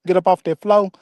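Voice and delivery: "floor" said like "flo" in "get up off that floor"; Southern twang. Shown as a demonstration. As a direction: drop the r in "floor", country style. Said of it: "When I say".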